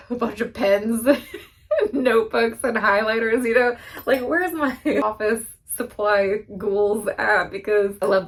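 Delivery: giddy, laughing about school supplies; excited. Real, not acted. To viewers, listing new pens and notebooks, giddy and laughing. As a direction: bubble over with delight. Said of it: "Really excited".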